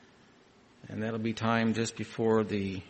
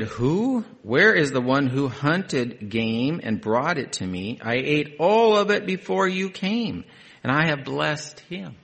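trembling Isaac; 3 semitones higher, 4 dB louder than usual. Acted. Isaac trembles, questions Esau.

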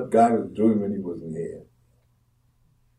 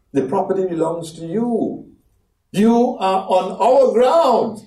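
a hint of a pleading father, higher; reassuring father; 8 semitones higher than usual. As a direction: coax the elder son gently. Father reassures the elder son.

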